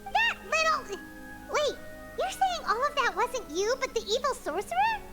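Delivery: high-pitched, incredulous outburst; indignant disbelief. Acted. Hunter challenges the brainwashing confession, indignant disbelief. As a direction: break off, then question it in disbelief. Reacting to villain's claimed brainwashing.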